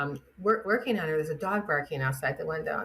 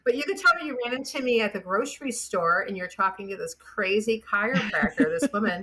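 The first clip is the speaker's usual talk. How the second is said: higher, teasing conspiratorial tone; joking to the husband about a cover story; playful; 3 semitones higher than usual. Retold or imitated. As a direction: tease him, voice lifted.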